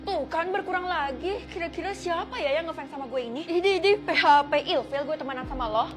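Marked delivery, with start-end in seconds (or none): 3.5-5.9 mocking laugh.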